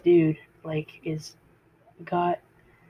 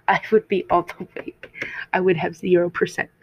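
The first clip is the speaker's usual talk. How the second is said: playful whisper, like a secret confession; whispered aside. Real, not acted. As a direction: whisper it as a self-mocking joke.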